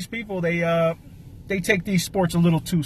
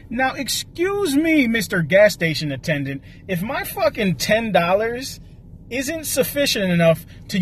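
exasperated comic tirade; indignant rant; 2 semitones higher than usual. Acted. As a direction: tell off a lazy attendant with mock politeness. Acted indignant rant at attendant.

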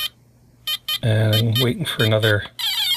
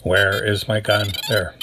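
Robocop voice; 3 semitones lower than usual. Pretend. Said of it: "That's my best robot voice".

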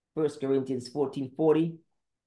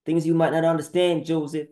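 raised, higher and louder; louder emphatic repeat; 3 semitones higher, 5 dB louder than usual. Acted. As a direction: drive it home with force. Second take, pushed harder.

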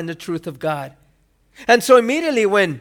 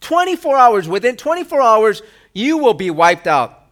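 mock angry threat; 3 semitones higher, 4 dB louder than usual. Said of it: "what she says".

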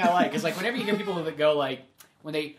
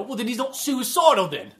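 mock exasperated; 5 semitones higher, 6 dB louder than usual. Quoting the movie character.

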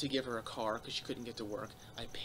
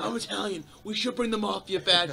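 laughing Italian guy; 8 semitones higher, 8 dB louder than usual. Retold or imitated. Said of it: "He's like".

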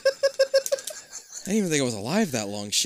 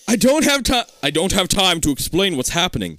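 urgent raised voice; shout; 5 semitones higher, 4 dB louder than usual. Acted. Kid shouting a warning at his mom. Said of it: "you shout at her".

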